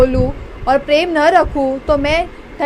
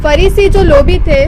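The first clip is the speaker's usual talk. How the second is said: louder reading; 7 dB louder than usual. Real, not acted. Reader repeats the first line loudly for the pastor. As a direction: read it out loud and firm. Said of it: "बस, repeat".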